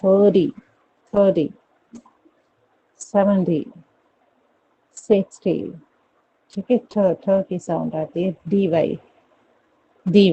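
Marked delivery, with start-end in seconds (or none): 0.0-5.7 teacher's American-style D-sound drill; American pronunciation. Shown as a demonstration. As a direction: model American "thirty, सेवेंटी, सिक्सटी", "dee" endings. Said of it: "American में it is pronounced as".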